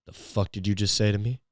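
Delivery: low, quiet stunned challenge; hushed disbelief. Acted. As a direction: play it stunned, voice dropped low. Acted stunned reply to the pitch.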